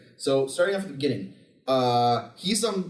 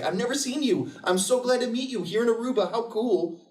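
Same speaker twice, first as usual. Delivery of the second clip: mock gushing cousin; 5 semitones higher than usual. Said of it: "the one cousin that's like".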